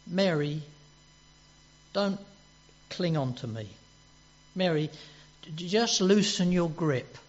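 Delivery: gentle Jesus reassuring Mary; kindly and gently. Retold or imitated. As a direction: ease her grip with kindness. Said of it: "very kindly and very gently says to her".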